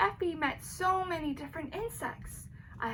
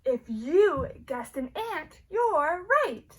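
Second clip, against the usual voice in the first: cheery reveal; 6 dB louder, slower than usual. Acted. Reveals the riddle answer.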